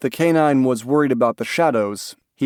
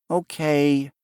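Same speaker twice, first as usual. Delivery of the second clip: put-on reluctant little boy; 3 semitones higher than usual. A narrator's reading. Child reluctantly agrees.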